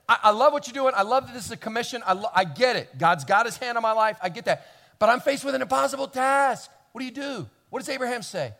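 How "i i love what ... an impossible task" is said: loud, earnest protest; servant's protest. Retold or imitated. Servant telling Abraham the task is impossible, loud. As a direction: plead your case to your master. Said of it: "the servant says".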